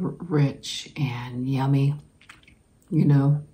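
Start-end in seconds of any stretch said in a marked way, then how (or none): 0.0-1.9 whispering. Real, not acted. Savoring candy.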